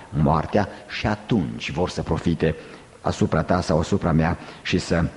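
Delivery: low, grave sermon tone; subdued preaching. Real, not acted. Preacher explaining how others exploit your suffering, subdued preaching. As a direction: keep it low and serious.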